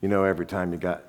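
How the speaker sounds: very soft, low aside; hushed, low-key call; gentle interjection. Retold or imitated. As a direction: get their attention quietly, voicing Jesus. Jesus quietly addresses the accusers.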